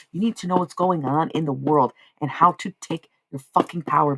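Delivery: ranting harder and harder until shouting; building into a shout. Real, not acted. Streamer yelling at chat about tarot, building to a shout. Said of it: "sorry for shouting".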